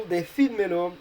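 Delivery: "decídmelo" with stress on the I, de-CÍD-me-lo; Spanish word demo. Shown as a demonstration. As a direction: say "decídmelo" in Spanish, leaning on the accented Í. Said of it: "So we want the I to be stressed".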